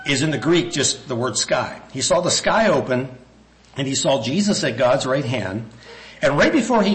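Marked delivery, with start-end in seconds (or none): 1.9-3.1 sky lifted and leaned on; single out sky in He saw the sky open; emphasize sky over heaven; stress on sky. Shown as a demonstration. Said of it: "I want to emphasize that word heaven".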